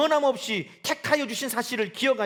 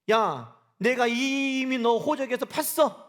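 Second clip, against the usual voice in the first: mock angry father; 3 semitones higher, 4 dB louder, much slower than usual. Angry father disowning son.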